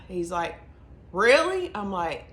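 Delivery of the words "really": much higher, louder "Really?"; imitated amazed husband. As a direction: mimic his delighted disbelief. Husband learns she's pregnant.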